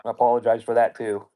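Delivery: talking with no teeth; gummy speech without dentures; toothless. Real, not acted. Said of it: "It's hard to talk with no teeth".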